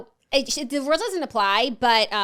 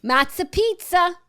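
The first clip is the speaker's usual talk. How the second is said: high, loud, drawn-out menu call; playful announcement; 8 semitones higher, 5 dB louder, slower than usual. Pretend. Co-host announces the corrected lunch item, playful high call.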